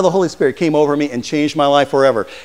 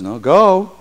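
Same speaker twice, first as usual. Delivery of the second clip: slow, measured voice of the Lord; slower than usual. Acted. The Lord commanding Ananias, slow and measured. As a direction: deliver it slow and weighty. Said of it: "the Lord says".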